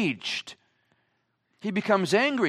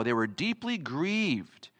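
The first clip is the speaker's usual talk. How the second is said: hushed grief; 3 semitones lower, 8 dB quieter, slower than usual. Shown as a demonstration. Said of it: "just like we are right now".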